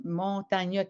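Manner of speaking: "montagne" with the final E voiced as "euh"; as written. Shown as a demonstration. Teacher voicing parents' objection, "montagne" with its written E sounded. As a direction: say "montagne" as spelt, adding "-eu" at the end. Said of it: "quand ça s'écrit".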